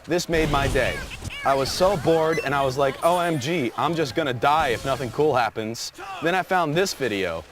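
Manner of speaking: lightly voiced bro commenter. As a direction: read it out like an amped-up dude commenter. Voices a bro's online comment.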